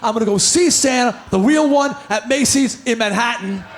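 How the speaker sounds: put-on low determined kid. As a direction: state it like a solemn vow. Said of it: "I said".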